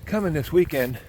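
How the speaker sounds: out of breath from climbing; winded, puffing between words. Real, not acted. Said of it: "out of breath there for a second".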